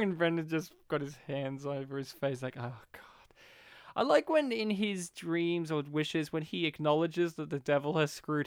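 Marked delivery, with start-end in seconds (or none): 2.6-3.0 hushed, low mortified whisper; whispered oh God. Retold or imitated. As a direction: groan it into your hands. Hands over face groan.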